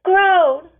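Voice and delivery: a loud, high cry of his name; calling out. A narrator's reading. A mother cries out her son's name, loud. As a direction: call him sharply.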